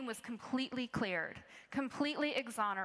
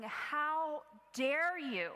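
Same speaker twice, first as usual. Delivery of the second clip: slow, drawn-out indignant how dare you; retold inner fury, spoken slowly; fuming indignation; 3 semitones higher, much slower than usual. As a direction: let the outrage simmer as you stretch it out. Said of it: "I just was thinking and fuming".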